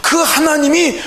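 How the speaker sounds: acted enemy jeering at captives; mildly scornful, pressing challenge; mocking taunt. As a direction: needle them with a rhetorical question. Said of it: "이렇게 조롱을 당하고 있잖아".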